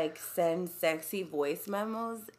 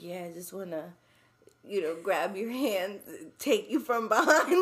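mock sexy voice. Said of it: "send sexy voice memos".

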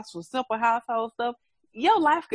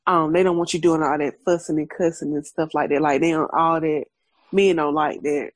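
lightly voiced father; 5 semitones lower, 4 dB louder than usual. Voicing her father's advice.

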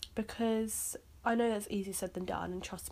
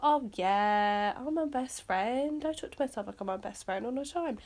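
lightly sarcastic gushing; mock enthusiasm; 2 semitones higher, 4 dB louder than usual. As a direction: imitate someone gushing over a cliche. Mocks the cliche as inner thought.

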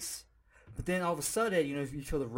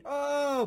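mock scream; 8 semitones higher than usual. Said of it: "fell off the cliff screaming".

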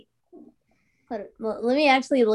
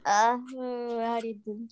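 whispering; 2 semitones lower, 9 dB quieter, much slower than usual. Real, not acted. Aside under breath.

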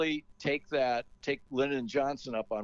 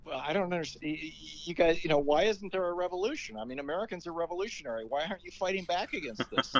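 higher, puzzled and rising protest; baffled disbelief; 6 semitones higher, faster than usual. Retold or imitated. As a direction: voice him bewildered, pitched up. Dane's baffled outburst.

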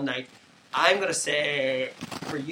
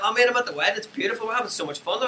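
higher, bright imitation of a happy friend; mock cheerful; 8 semitones higher, faster than usual. Teasing a friend by imitating his happy voice note. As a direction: gush like you're loving the wedding. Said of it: "you're like".

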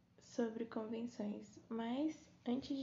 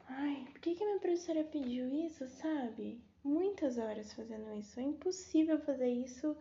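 louder, exasperated whining; exasperated complaining; 3 semitones higher, 5 dB louder than usual. Real, not acted. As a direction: vent about an impossible assignment. Complaining about homework deadline.

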